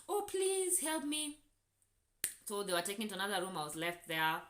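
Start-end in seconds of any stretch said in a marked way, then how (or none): 0.1-1.4 higher, slow, whiny imitation of a pleading woman; a hammed-up pleading whimper; mock crying plea. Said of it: "she's crying".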